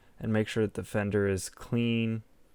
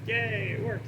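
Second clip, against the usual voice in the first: excited; 11 semitones higher than usual. Real, not acted. Headlight finally works after fixing.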